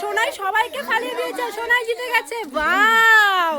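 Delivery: thrilled cheer for the win; excited cheering. Real, not acted. Child wins tug game.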